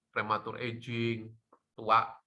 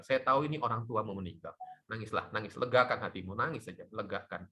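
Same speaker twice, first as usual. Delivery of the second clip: soothing words at a funeral; gentle comfort; 2 semitones lower than usual. Retold or imitated. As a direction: comfort a grieving mourner. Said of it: "Saya akan ngomong".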